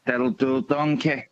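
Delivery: low impression of a film catchphrase; Donkey catchphrase impression. Caller shows off his impression to the quiz host, low film voice. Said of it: "I can actually do".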